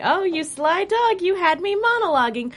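camp it up like a cartoon villain; high mock villain. Parodying villain cliché.

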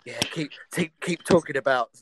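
a hint of a put-on flirty voice, whispered at the end; lightly voiced, teasing come-on; mock seductive murmur about square footage; weird flirty voice. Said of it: "doing that weird voice".

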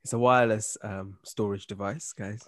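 low, smooth seductive voice; sexy deep voice. Acted. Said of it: "That voice".

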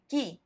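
"ki" demonstrated as one syllable, no u heard; teacher's model of the sound "ki". Shown as a demonstration. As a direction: say "ki" as a hard k plus i. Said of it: "para que tenga ese sonido de".

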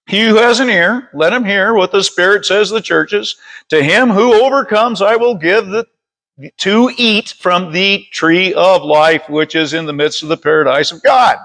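measured read-aloud Bible verse; scripture reading. Real, not acted. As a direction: read it out deliberately to a congregation. Reads scripture aloud to congregation.

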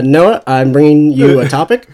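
mock broadcaster with delay; news broadcaster. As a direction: stiff news reporter handing over. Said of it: "that news broadcaster delay".

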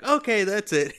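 fed up; mock upset. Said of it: "He gets all upset".

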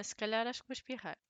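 holding back a sneeze. Real, not acted. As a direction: sneeze coming on.

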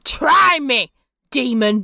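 loud, spat-out dare; defiant challenge. Acted. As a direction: square up to your captors. Captive defies party.

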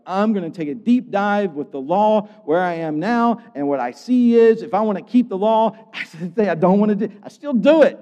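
high, loud, building self-frustration; exasperated confession. Acted. Preacher voices Paul struggling with the law, exasperated. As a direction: build to a loud, baffled admission.

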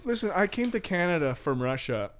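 put-on Russian accent, in and out. Fake Russian guest answers interviewer, Russian accent. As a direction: play a Russian emigrant with a patchy accent. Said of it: "You're coming in and out of a accent".

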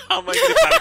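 mimicked scream.

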